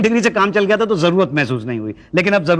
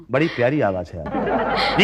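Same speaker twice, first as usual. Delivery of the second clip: low, slow admiring murmur; slow down and drop low, charmed; smitten compliment; 6 semitones lower, slower than usual. Acted. Man flattering a woman caller, smitten.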